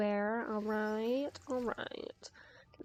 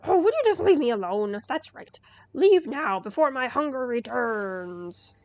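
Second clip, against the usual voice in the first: loud growling wolf voice; big bad wolf; 9 dB louder than usual. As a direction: boom it out like a fearsome beast. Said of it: "you're not really a wolf".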